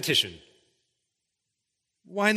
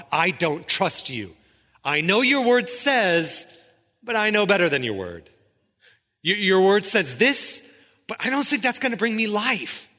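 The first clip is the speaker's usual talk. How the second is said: defiant; 4 semitones higher than usual. Pretend. Voicing a disobedient heart to God.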